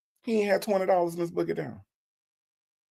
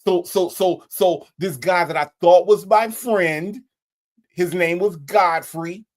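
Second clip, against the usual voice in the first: excitable client. Acted. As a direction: plead your silly case to a lawyer. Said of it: "the consultation at the lawyer's office".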